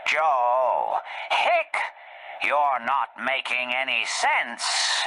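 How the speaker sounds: put-on hiccuping drunk voice; tipsy woman. Drunk Scamala telling Joe he makes no sense. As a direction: scold him between hiccups.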